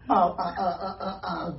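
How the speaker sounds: stammering through laughter; laughing stammer. Real, not acted. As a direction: laugh while groping for words. Laughing while searching for words.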